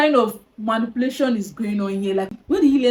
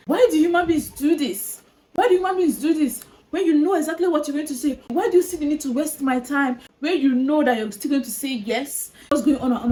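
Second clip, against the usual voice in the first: higher, exasperated rant; 5 semitones higher than usual. Real, not acted. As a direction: vent at the listener, fed up. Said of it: "exasperated rant".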